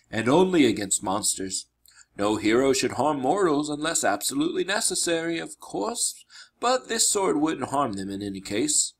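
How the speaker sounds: lightly voiced, measured teacher; instructing mentor. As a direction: explain the rules as a tutor.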